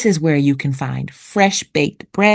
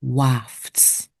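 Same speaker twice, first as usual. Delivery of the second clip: soft repeat; 6 semitones lower, 6 dB quieter than usual. Shown as a demonstration. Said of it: "The next word is wafts".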